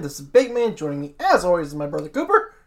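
mock Australian host kicking off the show; joking Australian accent. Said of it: "I'm gonna stop doing that accent".

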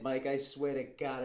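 low, quiet, hushed confession; a nervous brother whispering his excuses; Fredo in the boathouse scene. Acted. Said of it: "can do the whole boat scene from The Godfather".

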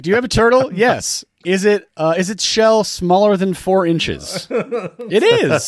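high-pitched mock questioning; acted interview. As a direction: lightly play both sides of an interview. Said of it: "It's like".

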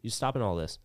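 mock telling-off of the gunny; exasperated telling-off. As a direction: lecture him on the delay. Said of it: "I was like".

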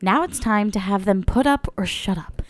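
upbeat sponsor read voice. Acted. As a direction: read it like a podcast ad. Ad read opening.

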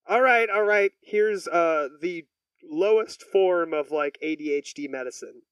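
put-on a touch of New York accent. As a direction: imitate the doctor in light New Yorkese. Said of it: "I'm doing a New York accent".

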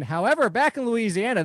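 ordinary talk

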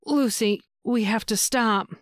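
grunted through gritted teeth; strained grunt, teeth clenched. Acted. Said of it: "he grunted through clenched teeth".

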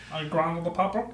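light hormone monster impression. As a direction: keep the hormone monster going. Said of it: "the voice of that hormone monster".

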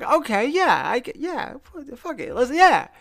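high-pitched, halting self-hype; excited retold pep talk, ending loud; mock psyching up. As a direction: hype yourself up, pitched well above normal. Retold psyching himself up on try.

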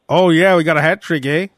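lightly mocked Canadian accent; Canadian hockey-player accent with a tagged-on "eh"; Patrick Kane impression. Host imitates a hockey player, Canadian accent. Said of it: "but he sounds Canadian".

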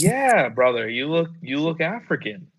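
imitated over-familiar street hustler, pitch swooping up; mildly hammed-up buddy talk; chummy insistence. Stranger insisting to the teller that he looks African, chummy.

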